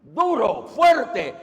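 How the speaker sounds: a forceful fuerte; strong and loud. Shown as a demonstration. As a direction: hit duro and fuerte hard. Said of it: "si este es un poco fuerte".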